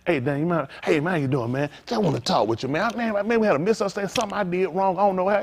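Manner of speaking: soft, calm apology to a friend; calm approach. Shown as a demonstration. Man reaching out to a brother he wronged, soft and calm. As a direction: come to him gently and humbly. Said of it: "But I came to him right the way".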